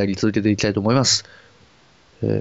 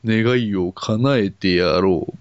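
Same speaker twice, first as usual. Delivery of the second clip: genie; much slower than usual. Pretend. Genie-like dragon speaks.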